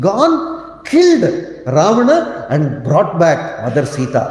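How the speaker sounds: mother chiding her strong son; reproaching mother. Retold or imitated. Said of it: "she says".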